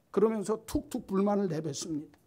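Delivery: normal talking voice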